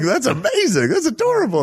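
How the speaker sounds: very high, delighted squeal; charmed squeal. Retold or imitated. Host imagines reacting to the Glasgow accent with a squeal. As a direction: gush like it's the cutest thing ever. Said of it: "I would have been like".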